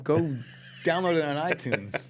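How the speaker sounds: teasing through a laugh. Real, not acted. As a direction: laugh while ribbing your cohost. Teasing the app mix-up.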